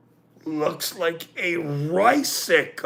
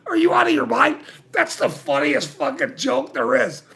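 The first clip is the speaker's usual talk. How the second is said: retold angry shout; 6 semitones higher, faster than usual. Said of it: "I'm like".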